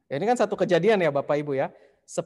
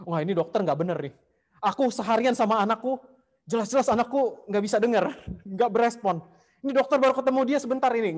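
stubborn insisting; 5 semitones higher, faster than usual. Retold or imitated. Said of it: "Tapi suaminya ngotot".

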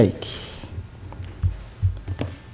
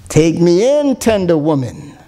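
sighing snake refrain; 5 semitones lower than usual. Acted. Snake's closing refrain to the woman, low fading sigh. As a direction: let the final refrain sink and die away. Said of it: "sighed the snake".

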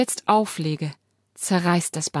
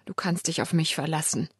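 choked out; 4 semitones lower, 6 dB quieter than usual. A narrator's reading. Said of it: "würge ich hervor".

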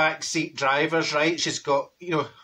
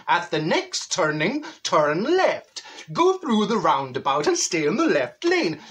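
sat nav wee man; slower than usual. Retold or imitated. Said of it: "The wee man saying".

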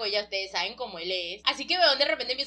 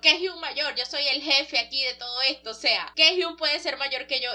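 acted affronted protest; mock indignation; 2 semitones higher than usual. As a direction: challenge it like an offended boss. Retold boss indignant at being outranked.

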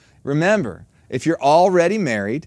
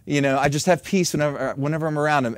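gently mocking a smitten wife; starry-eyed admiration; 2 semitones lower than usual. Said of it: "our attitude goes from".

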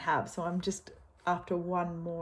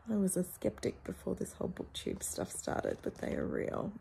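tearful; 6 dB quieter than usual. Real, not acted. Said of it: "I'm crying".

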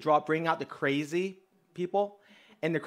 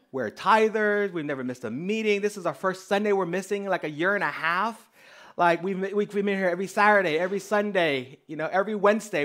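higher-pitched, emphatic pleading of your case; indignant protest; 4 semitones higher, 4 dB louder than usual. Retold or imitated. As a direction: protest in rising disbelief at being questioned. Acted protest at being reproached.

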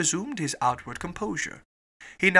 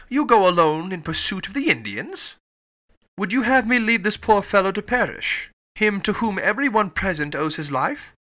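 loud, raised-pitch protest; crying out; 4 semitones higher, 6 dB louder than usual. A narrator's reading. Fix and Fogg argue over pursuing the Indians, loud outcry. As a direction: fire the questions out loudly. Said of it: "cried Fix".

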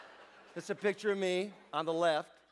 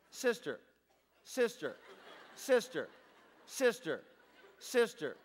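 repetitive listing; much slower than usual. Pretend. Listing the slides one by one.

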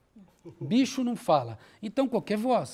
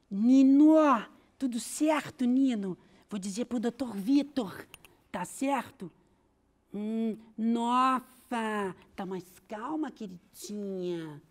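higher, sweet lady snake voice; man doing a woman's voice, higher; Celeste voice; 3 semitones higher, much slower than usual. Shown as a demonstration. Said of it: "ela fala".

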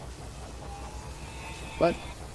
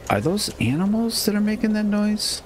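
startled. Real, not acted. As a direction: pitch jumps way up in surprise. Startled by strange animal noise.

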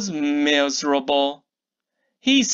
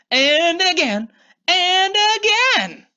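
excited build; 11 semitones higher than usual. A narrator's reading. Wand waved over and over.

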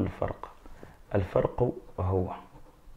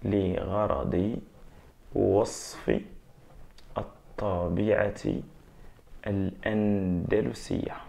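dictating the answer slowly, word by word; slow, dictated exam answer; slow model answer; 3 dB quieter, much slower than usual. Shown as a demonstration. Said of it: "راح تقول لي في الجواب".

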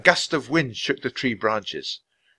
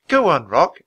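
higher, encouraging urging; coaxing; 6 semitones higher, 7 dB louder than usual. A narrator's reading. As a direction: gently egg on an injured bird. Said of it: "Annie coaxed".

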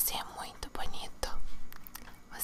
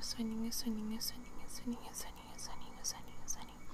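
fading whisper; 6 dB quieter, faster than usual. Acted. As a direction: whisper trailing off softer and softer. Lulling the viewer toward sleep.

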